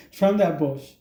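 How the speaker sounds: slow, chuckling through the words; amused slowed-down echo of the line; laughing repeat. Retold or imitated. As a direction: laugh as you say it again. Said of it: "There's always a first time".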